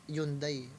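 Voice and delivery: Hyundai said softly as "YUN-dai"; Korean-style pronunciation. Shown as a demonstration. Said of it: "ang pronunciation yata sa Korea". (bigkas-Koreano ng Hyundai, "YUN-dey")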